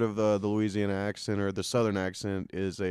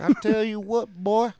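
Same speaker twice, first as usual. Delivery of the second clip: higher, exaggerated Southern redneck twang; redneck accent; 10 semitones higher than usual. Teasing about Louisiana, a hammy Southern redneck accent. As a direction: ham it up like a backwoods Southern good ol' boy. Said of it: "They got the redneck accent".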